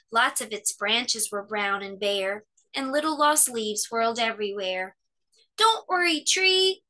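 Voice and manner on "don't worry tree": high, louder call in alarm. A narrator's reading. Cub calls to his tree in alarm, high and louder. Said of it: "he called in alarm".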